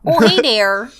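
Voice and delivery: hammed-up Canadian greeting; fake Canadian accent. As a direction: put on a folksy Canadian accent. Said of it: "do the fake Canadian accent".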